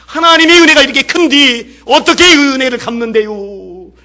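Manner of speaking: loud, high cry of gratitude to God; overwhelmed prayer. Retold or imitated. Leper crying out his thanks at church, loud and overwhelmed. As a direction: burst out with it, overcome with emotion. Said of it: "감격 속에서 반복".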